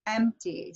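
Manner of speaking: "empty" stressed on the first syllable; stressed-unstressed demo. Shown as a demonstration. Teacher contrasting with guitar, first-syllable stress on "empty". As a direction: hit the first syllable of "empty", let the second drop. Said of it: "So this is stressed, unstressed".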